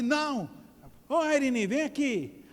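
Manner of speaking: imitating a teacher calling a pupil over; retold annoyed teacher. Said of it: "ela ficava com raiva".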